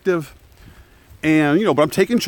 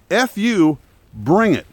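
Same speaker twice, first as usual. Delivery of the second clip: defiant scream; 2 semitones higher, slower than usual. Retold or imitated. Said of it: "I screamed back at them".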